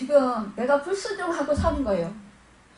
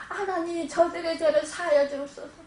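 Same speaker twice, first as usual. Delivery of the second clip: quoted prayer; 4 semitones higher than usual. Retold or imitated. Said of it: "그렇게 기도하셨어요".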